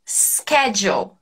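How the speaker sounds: Schedule slowly as SKED-jool; slow schedule demo. Shown as a demonstration. Teacher repeats the American Schedule slowly. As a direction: drag out Schedule with a hard sk. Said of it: "a gente diz schedule".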